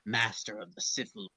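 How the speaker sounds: low, slow sinister emperor; Palpatine hologram. Acted. The Emperor's recording speaks to Vader, low and sinister.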